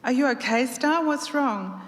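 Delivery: high, anxious questions; worried lover asking. Acted.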